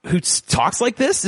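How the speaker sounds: animated. Shown as a demonstration. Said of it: "Is there anyone who's so animated?".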